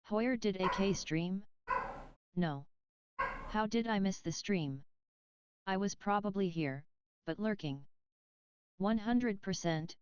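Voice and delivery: robotic synthetic reading voice; flat machine voice reading chat; bad text-to-speech. Real, not acted. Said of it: "the T T S read your message".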